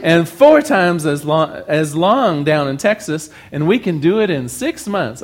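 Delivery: lightly voiced Texan accent, easing off. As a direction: boast with a hint of a Texan accent. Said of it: "I'm leaving the accent behind".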